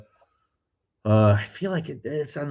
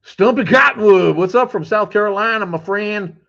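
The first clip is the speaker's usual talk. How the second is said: high, loud hearty hello; shouted greeting; 12 semitones higher, 7 dB louder than usual. Real, not acted. Streamer greeting a viewer from South Carolina, loud and high. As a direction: call out to a friend across the room.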